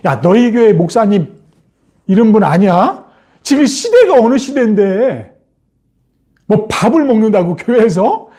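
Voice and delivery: lightly voiced jeering at believers; mild mock challenge; mocking scoffer. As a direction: needle a churchgoer with incredulous questions. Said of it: "우리 그리스도인들을 조롱하는 사람들이".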